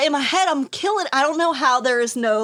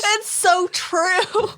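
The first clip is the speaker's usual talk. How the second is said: slow laughing shout; 9 semitones higher, much slower than usual. Real, not acted. Agreeing with a friend's joke, slow laughing shout. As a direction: shout it slowly as you crack up.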